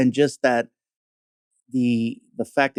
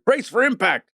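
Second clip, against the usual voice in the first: movie pilot voice; 11 semitones higher than usual. Retold or imitated.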